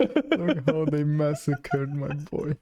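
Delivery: very slow, drawn-out movie line; Godfather film quote. Acted. Friend corrects the Godfather quote, slow and hammed-up. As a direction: stretch it out like a Godfather impression. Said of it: "This is Godfather One".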